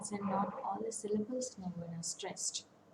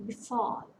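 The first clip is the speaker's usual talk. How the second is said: "befall" as be-FALL; weak BE, stressed FALL in "befall"; stress on root. Shown as a demonstration. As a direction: put the weight on the second syllable of "befall". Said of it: "So the stress falls on".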